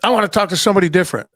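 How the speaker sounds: retold yelling, kept mild; mock irate caller. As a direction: imitate an angry caller rushing the words. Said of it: "cursing and yelling and they're like".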